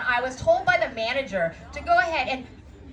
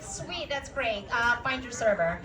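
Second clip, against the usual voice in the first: sarcastic brush-off; 5 dB quieter than usual. Retold or imitated. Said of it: "I was like".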